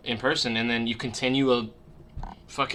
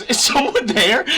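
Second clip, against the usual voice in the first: slow, high question broken by laughter; laughing mom; 11 semitones higher, 8 dB louder, slower than usual. Retold or imitated. Mom realizes someone heard her fart, laughing question. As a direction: ask it again while cracking up. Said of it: "but she, like, laughs".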